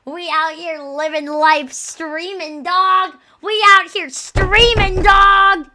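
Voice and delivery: loud, drawn-out hype holler; hyped-up shout. Real, not acted. Streamer hyping up the live stream, hyped shout.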